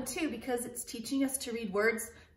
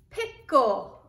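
louder blended word; 7 dB louder than usual. Shown as a demonstration. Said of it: "sound out the two syllables".

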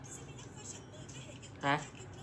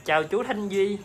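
prompting; 5 semitones higher than usual. Shown as a demonstration. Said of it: "nói".

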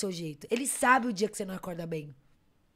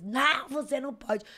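higher, drawn-out mock refusal; retold refusal; 4 semitones higher than usual. Airport staff refusing to let her through, mock refusal. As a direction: imitate a drawn-out, higher-voiced no.

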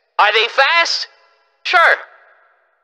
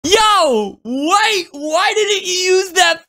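outraged shouting; 9 semitones higher than usual. Real, not acted. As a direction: shout in shocked protest. Outraged by the Nakama line.

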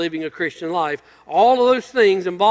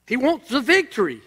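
much higher, rising into delighted admiration; a fan marvels at the driver, higher and eager; admiring exclaim; 9 semitones higher than usual. Retold or imitated. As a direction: gush over him like a thrilled fan. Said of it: "And you go".

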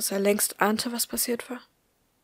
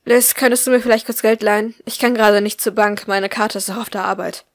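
stressed mother; 9 dB louder than usual. A narrator's reading. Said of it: "eine gestresste Begrüßung".

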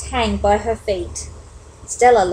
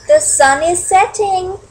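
slow, high little-bird warning; lightly acted high warning; 8 semitones higher, 4 dB louder than usual. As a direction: warn them in a raised, drawn-out voice. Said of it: "warned Flitter".

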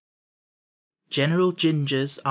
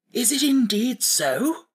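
high, slow wondering question; relieved surprise; 9 semitones higher, slower than usual. A narrator's reading. Scarecrow hearing there is one language, relieved. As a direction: marvel at welcome news. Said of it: "much relieved to hear this".

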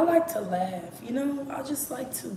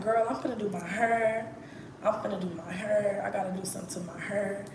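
country Texas accent, "hair" said like "her". Shown as a demonstration. Telling a girlfriend about her hair, country Texas accent. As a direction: turn each "hair" into "her", Texas style. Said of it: "I don't know why I talk like that".

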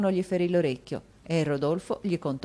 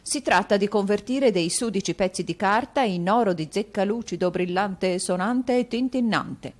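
higher, savouring each shiny word; relishing gold; 5 semitones higher, 3 dB louder than usual. Acted. Mantalini to Newman, savouring the talk of gold. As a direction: lick your lips over money.

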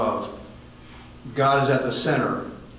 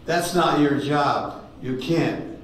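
loud voice of God; 3 semitones higher, much slower than usual. Retold or imitated. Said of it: "A loud voice came".

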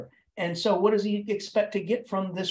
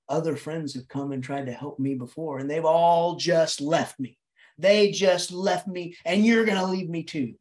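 forlorn lament; 2 semitones lower than usual. Acted. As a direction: dwell mournfully on being left. Voicing the melancholy youth's lament.

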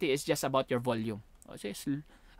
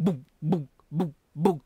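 booming "bug" beats with pauses; imitated speaker thumps; 2 semitones lower than usual. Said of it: "near a very big speaker". (ginagayang kabog ng speaker)

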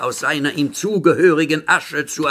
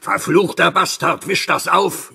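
angry shout; 5 semitones higher than usual. Acted. Master cursing the servant who spilled the substances, furious. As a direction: snap at him to clean it up.

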